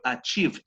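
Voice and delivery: "achieved" closing on a near T; T ending on ACHIEVED. Shown as a demonstration. Teacher modelling the participle for students, "achieved" with T-like ending. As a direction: end "achieved" as "a-cheevt", no extra syllable. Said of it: "Tiene como una prácticamente T al final".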